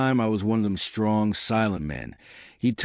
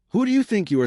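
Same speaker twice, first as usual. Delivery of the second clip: much higher, louder indignant challenge; angry outburst; 12 semitones higher, 3 dB louder, faster than usual. A narrator's reading. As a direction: flare up in offended pride. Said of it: "breathing hard".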